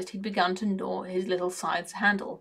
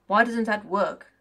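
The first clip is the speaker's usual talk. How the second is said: puzzled heavy voice. Acted. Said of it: "in a puzzled, heavy voice".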